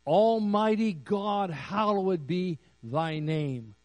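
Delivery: booming slow "Almighty God"; grand prayer address. Retold or imitated. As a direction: proclaim it like a formal prayer. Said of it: "He could have said".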